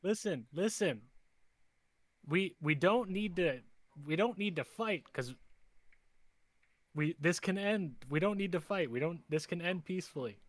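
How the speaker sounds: earnest negotiator, pitched a little high; goblin-speaking peacemaker. Acted. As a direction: talk the enemy down, haltingly. Player pleads in character for peace.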